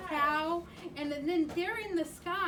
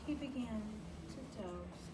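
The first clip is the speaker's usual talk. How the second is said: drifting off; 6 semitones lower, 11 dB quieter, faster than usual. Acted. Flea falls asleep.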